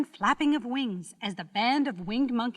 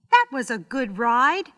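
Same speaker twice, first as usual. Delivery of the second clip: put-on young girl; 3 semitones higher, 8 dB louder than usual. A narrator's reading. Little girl speaking in the story.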